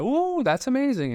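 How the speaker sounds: high, slow, impressed coo; a relative at the holiday table gushing over name-dropping. Acted. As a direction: coo in exaggerated awe. Relative gushes at names.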